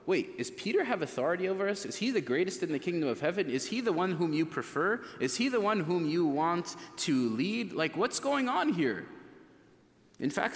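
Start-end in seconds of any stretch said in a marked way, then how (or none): 0.1-9.1 agitated disciples firing off quick questions; higher-pitched, hurried, indignant questioning; worked up. Acted. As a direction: act out worked-up disciples demanding answers. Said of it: "They get worked up about the situation".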